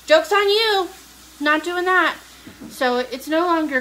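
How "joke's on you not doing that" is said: high, loud mock-triumphant retort; retold defiant comeback. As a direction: throw it back at them, loud and high. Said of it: "And I said".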